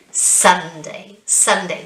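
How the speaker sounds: "Sunday" as SUN-day, falling; first-syllable stress. Shown as a demonstration. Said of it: "the first syllable".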